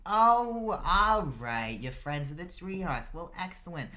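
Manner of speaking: high, loud start, easing down; pleasantly surprised mother. Acted. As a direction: greet friends of friends with sudden delight. Mother warms to the visitors.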